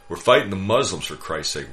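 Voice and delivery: loud, high angry outburst; exploding. Acted. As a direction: blow up at him, spitting the words. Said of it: "Walter exploded".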